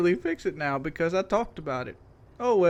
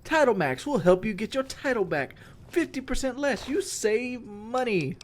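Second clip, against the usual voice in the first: imitating ad voice; 4 semitones higher than usual. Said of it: "the black guy at the end's like".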